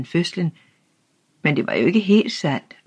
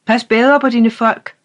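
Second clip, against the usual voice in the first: loud, higher, harsh reprimand; angry shout; 7 semitones higher, 6 dB louder than usual. A narrator's reading. Old official shouts a warning at the boy's father. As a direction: bark the warning down at him. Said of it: "råbte denne".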